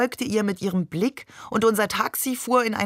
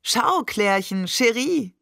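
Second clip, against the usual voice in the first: slow, rising, eager call to his wife; mild excitement; 4 semitones higher, slower than usual. Acted. Husband showing his wife the riverbank, eager. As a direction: point it out like he sees a palace. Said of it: "als hätte er am Ufer einen feudalen Palast erblickt".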